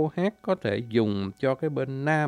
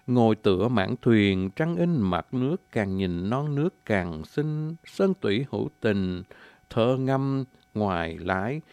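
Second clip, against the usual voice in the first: poem recitation. Acted. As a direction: declaim it like a poem to a lover. Recites a scenic verse.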